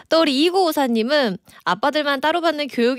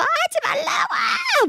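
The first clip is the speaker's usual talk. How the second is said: put-on high-pitched childish scream, drawn out slowly; screaming at dad to stop teasing, a crying child's shriek; retold tearful scream; slower than usual. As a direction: shriek it like a kid throwing a tantrum at dad. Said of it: "울고불고 막 소리 지르면서".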